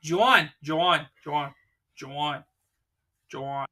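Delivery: teasing imitation of her Jersey accent; mocking Jersey accent. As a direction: say "Juan" as a mock-Jersey "John". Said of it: "It's your accent".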